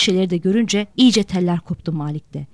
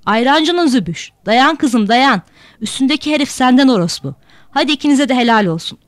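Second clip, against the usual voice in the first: loud, higher, jeering yells; drunken jeering shout; 4 semitones higher, 5 dB louder than usual. Acted. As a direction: keep bellowing mockery at the other boat. Drunk Fatoş keeps shouting. (bağırarak sarhoş alay)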